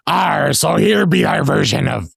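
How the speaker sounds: put-on wing a rough pirate-like cowboy accent. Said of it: "you want me to do that with the accent".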